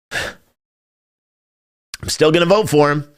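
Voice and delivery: very slow, drawn-out, weary sigh through the words; sighing reluctance. Real, not acted. To his stream audience, a reluctant admission, slow and sighing. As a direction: resign yourself to it, stretching each word.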